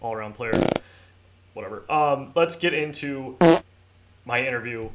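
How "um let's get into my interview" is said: hiccups. Real, not acted. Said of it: "I can't stop hiccuping or burping".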